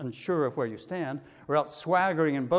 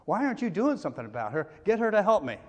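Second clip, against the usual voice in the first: demanding Martha; 4 semitones higher, 3 dB louder, faster than usual. Acted. Martha demands Jesus act.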